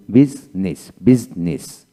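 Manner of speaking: বিজনেস with the I unpronounced, in two syllables; silent I. Shown as a demonstration. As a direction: say বিজনেস slowly as biz-nis, no middle vowel. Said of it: "আই উচ্চারণ হয় না".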